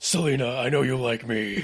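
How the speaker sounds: imitated gravelly voice. Answering a suggestion to voice a Gotham character: Christian Bale voice. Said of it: "doing your Christian Bale voice".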